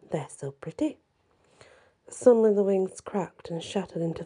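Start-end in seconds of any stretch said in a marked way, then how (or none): 0.1-1.0 muttered. A narrator's reading. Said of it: "and he muttered".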